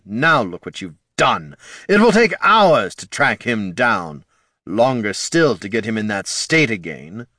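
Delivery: ancient lich voice. Acted.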